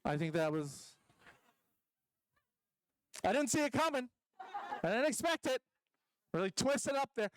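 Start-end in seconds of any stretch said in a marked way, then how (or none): 3.2-7.3 mock surprise. Sarcastic mock surprise at bigot reveal.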